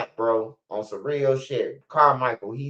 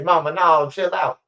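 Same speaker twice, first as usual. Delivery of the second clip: pleading with mama; 3 semitones higher than usual. Retold or imitated. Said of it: "I say".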